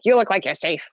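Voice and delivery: lightly voiced odd little guy; imitated stranger's voice. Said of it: "he's talking like this".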